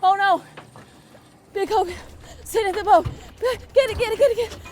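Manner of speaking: yelling from the sidelines. Real, not acted. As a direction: yell urgently as the fish nears the boat. Frantic while landing the fish.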